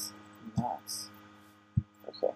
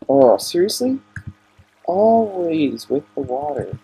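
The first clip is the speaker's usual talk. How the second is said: exasperated; 4 dB louder than usual. Real, not acted. Annoyed by water in game.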